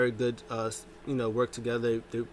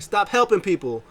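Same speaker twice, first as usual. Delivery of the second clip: louder, higher exasperated command; mock yell; 8 semitones higher, 8 dB louder than usual. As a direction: cut him off, fed up. MVP yells.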